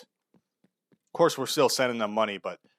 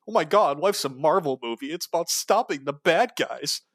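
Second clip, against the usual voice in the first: high, gushing mock voice; high, breathless "stopping the bad guys"; mocking naive believer; 4 semitones higher, 3 dB louder than usual. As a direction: play a starry-eyed fan of the war.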